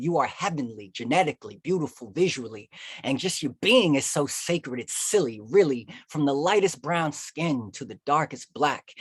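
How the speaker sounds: rhythmic, emphatic slam poetry; spoken-word poem. Acted. Poet addressing Black history educators and students, spoken-word. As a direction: punch out each phrase with pride.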